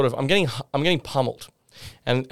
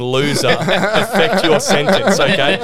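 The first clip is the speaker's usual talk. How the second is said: mock judge; 3 semitones higher, 4 dB louder than usual. Imitating the judge sentencing.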